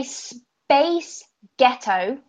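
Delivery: "space ghetto" drawn out slowly, word by word; deliberate, stretched "space ghetto" for a listener; sound-alike demo. Shown as a demonstration. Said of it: "it sounds like a girl group in Scottish".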